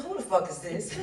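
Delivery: loud startled who-the-hell; suspicious loud answer to a stranger; startled shout. Retold or imitated. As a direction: bark it at an unknown caller. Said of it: "I said".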